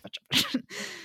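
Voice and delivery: comic grumbling noise; mock grumbling. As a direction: imitate him grumbling under his breath. Imitates his wordless grumbling.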